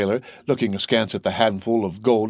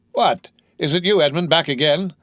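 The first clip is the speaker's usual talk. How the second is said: put-on Marseille accent; 6 semitones higher than usual. A narrator's reading. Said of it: "with a broad Marseille accent and a grin".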